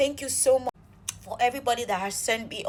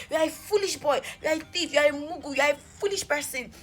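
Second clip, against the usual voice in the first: higher-pitched string of insults; reenacted name-calling, pitched up; retold cursing out; 5 semitones higher than usual. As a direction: reel off insults one after another. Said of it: "I was cursing him out".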